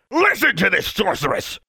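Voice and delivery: bellowing. Acted. Inspector denounces the schoolgirl, bellowing in outrage. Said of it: "bellowed Mister Brown".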